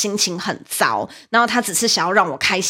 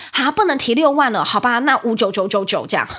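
mock teasing fan; 3 semitones higher than usual. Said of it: "他讲说".

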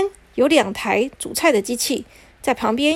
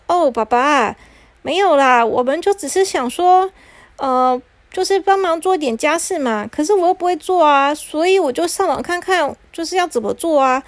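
put-on high, coaxing little-girl voice; sweet girl; 5 semitones higher than usual. Cinderella coaxing her father that machines do chores. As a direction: gently coax her father.

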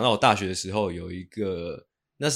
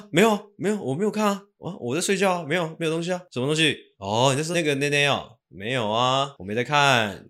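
nervous driver; 4 semitones higher than usual. Shown as a demonstration. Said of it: "那个师傅要更紧张一点啊".

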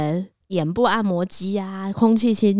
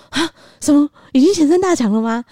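surprised; 9 semitones higher, 6 dB louder than usual. Retold or imitated. Shocked top prizes already.

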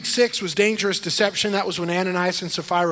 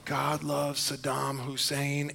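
Sunday school teacher; 3 semitones lower, 8 dB quieter, much slower than usual. Retold or imitated. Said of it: "my Sunday school teacher would say".

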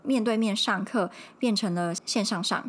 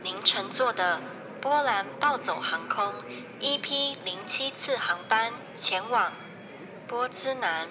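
polished gate announcer voice; airport announcement. Pretend. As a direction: read it like an airport PA. Mock airport boarding announcement.

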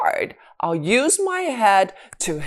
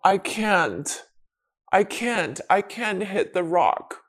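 softer, giving up; defeated; 6 dB quieter than usual. Acted. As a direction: let the words sink, beaten. Daddy gives up on rock.

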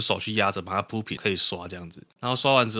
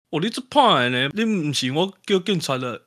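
customer threat; 6 semitones higher, 3 dB louder than usual. Retold or imitated.

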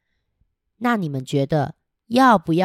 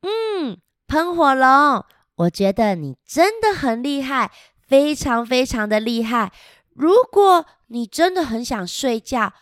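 lightly higher princess soothing the dragon; sweetly coaxing princess; 4 semitones higher, 3 dB louder than usual. Acted. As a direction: coax the dragon to sleep. Princess voiced in picture book. (哄喷火龙睡觉的公主)

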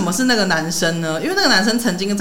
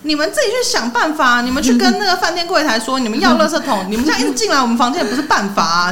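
retold shout; 5 semitones higher than usual. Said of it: "我就对外面大喊说".

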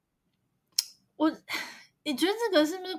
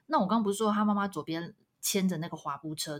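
ordinary talk, nothing marked

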